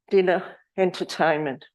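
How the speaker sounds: normal talking voice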